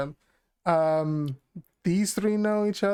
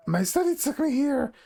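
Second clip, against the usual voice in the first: lightly voiced goblin woman; hesitant goblin woman, feeling for words; 3 semitones higher than usual. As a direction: put on a modest goblin voice. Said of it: "I have to do the goblin voice".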